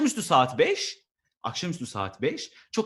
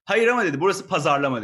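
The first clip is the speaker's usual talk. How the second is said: bossy manager; 2 semitones higher, 7 dB louder than usual. Retold or imitated. Voicing the manager.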